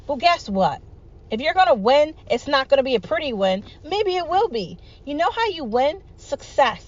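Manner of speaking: fired-up call to fight; rousing rally speech. Real, not acted. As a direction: pitch up, building fervour.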